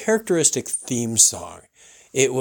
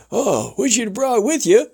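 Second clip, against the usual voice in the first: radio host; 11 semitones higher than usual. Retold or imitated. Host imitated welcoming guest, high showman voice. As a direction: roll it out like a ranch host.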